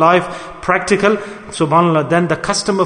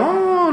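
imitated yawning howl; 12 semitones higher than usual. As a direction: demonstrate the rude noisy yawn, high in the voice. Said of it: "then he screams out".

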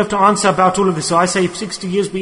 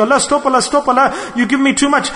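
higher, overwhelmed mock pleading; mock fed-up plea; 6 semitones higher than usual. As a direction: beg for it to stop, lightly acted. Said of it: "You'll be fed up of all".

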